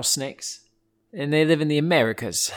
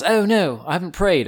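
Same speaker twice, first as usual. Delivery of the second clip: mock dismay; 4 semitones higher, 4 dB louder than usual. Acting out a sudden realization.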